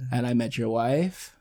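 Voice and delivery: slow, soft killer monologue; understated sinister quote, slowed down; Kevin Spacey. Retold or imitated. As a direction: lightly imitate a creepy confession, drawn out. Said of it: "Kevin Spacey's, like, giving this whole thing".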